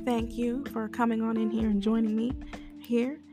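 hoarse, barely-there voice; lost voice. Real, not acted. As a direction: talk through a lost, hoarse voice. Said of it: "I have no voice".

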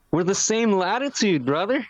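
exasperated, joking appeal; mock incredulous protest. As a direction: set the silly tourists straight, playfully. Mock reply to parka-wearing tourists.

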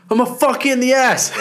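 high, loud laughing Tyson impression; mock Tyson threat. Retelling Tyson's press conference line to a friend, high and laughing. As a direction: squeal the threat through laughter. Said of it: "And he goes".

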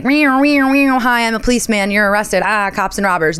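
clown the policeman like a kid playing cops and robbers; lightly hammed-up cartoon cop; goofy mock policeman. Mocking the policeman at the door.

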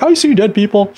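lightly voiced spooky movie quote; quick mock horror-film whisper-free delivery; quoting a movie line. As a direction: toss off the famous line with a hint of eerie. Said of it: "it's not like the, the sixth sense".

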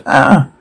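short, unprojected "ah"; mock terrified scream. Reader acts out terrified screams, small mock cry. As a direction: token scream at talking volume. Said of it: "Terrified screams".

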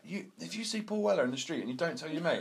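high-pitched mock telling-off; retold row. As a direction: act out a row between mates, breaking into a laugh. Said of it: "proper having a row".

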